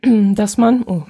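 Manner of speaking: hoarse, clearing throat. Real, not acted. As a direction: voice catching in a sore throat. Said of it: "ich werd ein bisschen heiser gerade".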